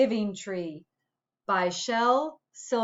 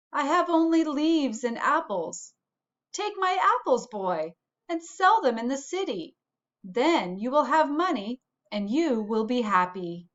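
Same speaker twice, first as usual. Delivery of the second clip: giving tree; 3 semitones higher than usual. Acted. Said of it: "said the tree".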